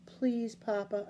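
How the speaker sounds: slow, soft pleading; begging. Acted. Boy begging his father not to make him quit, slow and soft. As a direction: draw it out, begging quietly. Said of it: "I begged".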